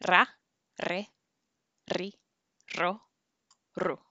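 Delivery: "Ra, re, ri, ro, ru" with a single tap of the r; single r syllables. Shown as a demonstration. Teacher models syllables for students to repeat. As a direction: tap the r once on each syllable. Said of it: "repítanme".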